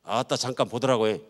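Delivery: Jeolla accent demo; playful Jeolla lilt; Jeolla dialect. Shown as a demonstration. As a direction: say it like a Jeolla local. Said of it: "전라도 말로는".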